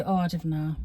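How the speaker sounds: Oh, I don't know in broad Geordie, don't as "dinnae". Shown as a demonstration. Mother shows how Geordies would say it, broad Geordie. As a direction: drop into thick Geordie. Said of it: "we would say".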